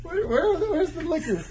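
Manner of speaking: high squeaky joking squeal. Acted. Host squeals looking for liquor.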